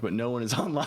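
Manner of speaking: said through a chuckle; amused laughing. Real, not acted. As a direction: break into a laugh mid-sentence. Laughing that no teammate is online.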